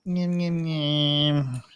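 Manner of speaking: absent-minded drawn-out humming syllables; idle mumbled filler sounds; idle nyem-nyem noises. Real, not acted. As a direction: fill the wait with nyem noises. Idle noise while searching a list.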